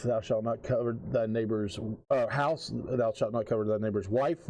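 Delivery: measured King James reading voice; scripture reading. Acted. Keeper reads the marked verses to the players, measured. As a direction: read it out like a lay preacher.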